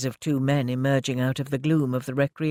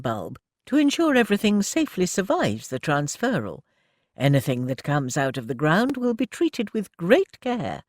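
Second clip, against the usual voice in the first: brisk lady manager; 2 semitones higher than usual. Acted. Mrs Frobisher telling Annie of the inspector, proper lady voice. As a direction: play the well-meaning welfare officer.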